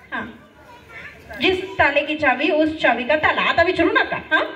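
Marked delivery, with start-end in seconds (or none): 1.4-3.4 quick tongue twister. Shown as a demonstration. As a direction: say it fast without stopping. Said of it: "पटापट म्हणायचं". (पटापट, न थांबता)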